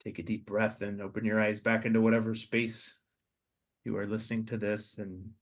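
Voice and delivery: prayerful meditation over a podcast; guided meditation. Acted. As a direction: lead them gently into the scene. Leads a guided imagination prayer.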